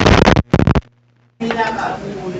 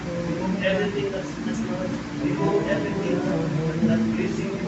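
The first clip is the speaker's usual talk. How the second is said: subdued, steady congregational prayer; settled pastoral praying; earnest prayer; 2 semitones lower than usual. Real, not acted. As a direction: speak to God in a lowered, even voice.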